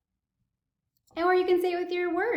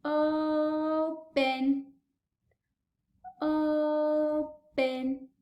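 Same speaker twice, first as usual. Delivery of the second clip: speech therapist modeling open; slow modeled word; much slower than usual. Shown as a demonstration. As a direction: open stretched slow and even. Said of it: "Let's try it again together".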